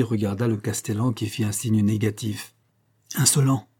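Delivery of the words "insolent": indignant outcry. Acted. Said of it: "s'écria la reine".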